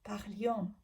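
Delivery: teacher whispering parlions back to the class; whispered repeat. Shown as a demonstration. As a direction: repeat parlions under your breath, unvoiced. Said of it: "teacher repeats the form".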